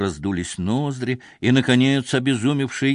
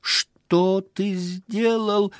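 shrieking; 10 semitones higher, much slower than usual. A narrator's reading. Wife screams at the husband in horror, high and long. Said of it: "кричала Лава".

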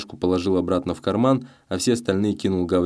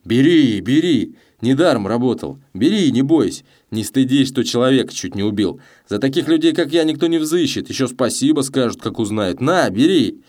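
громко и выше, напористо и насмешливо; всучить деньги, издеваясь; громко со смехом; 6 semitones higher, 5 dB louder than usual. A narrator's reading. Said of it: "что Челкаш смеётся". (Челкаш громко и насмешливо суёт деньги Гавриле)

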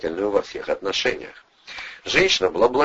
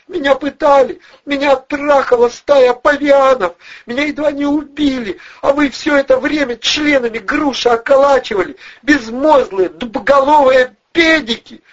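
high, loud hysterical woman's wail; sob-scream the grievances; tearful screaming; 8 dB louder than usual. A narrator's reading. Blonde in tears yelling at the useless men, hysterical screaming. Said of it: "Слёзы брызнули у неё из глаз".

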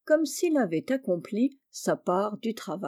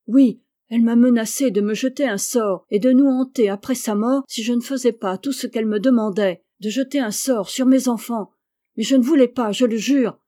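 desperate confession; 2 semitones higher, 6 dB louder than usual. Acted.

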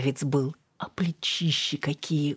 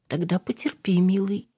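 soft whisper; 5 semitones higher than usual. A narrator's reading. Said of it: "мягко прошептала Алина".

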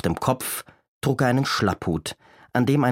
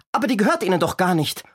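protesting grandmother; 9 semitones higher, faster than usual. A narrator's reading.

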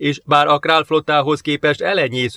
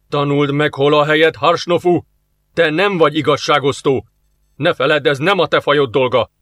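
hissed; 2 semitones higher, 4 dB louder than usual. Acted. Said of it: "sziszegte a Král parancsnok".

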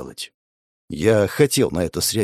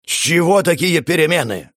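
barely contained emotion; 6 semitones higher, 3 dB louder than usual. Acted. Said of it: "Людвиг не мог сдержать эмоций".

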